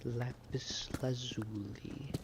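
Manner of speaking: slow, soft unvoiced whisper of awe; hushed whisper. Real, not acted. Streamer whispering to himself on finding lapis. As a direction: whisper the name like a secret treasure.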